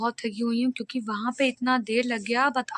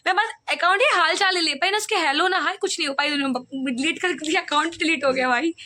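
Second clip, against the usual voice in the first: higher, agitated venting about the deleted account; exasperated complaint; 6 semitones higher than usual. Real, not acted. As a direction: vent it, pitched up and fed up. (झुंझलाकर ऊँची आवाज़ में शिकायत)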